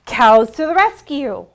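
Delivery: loud ringing call of the title; refrain called out. Acted. Librarian calling the refrain to the children, loud. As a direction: shout it out for the kids.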